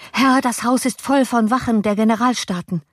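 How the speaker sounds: high-pitched, anxious report; alarmed. A narrator's reading. Servant warning master of guards, alarmed. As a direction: break the bad news in alarm.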